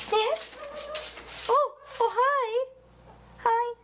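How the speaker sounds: high-pitched greeting to a pet; pet-talk greeting. Real, not acted.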